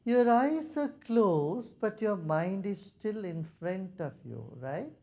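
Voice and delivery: measured guidance with long silences; guided meditation. Real, not acted. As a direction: settle them into stillness, taking your time. Leads a meditation.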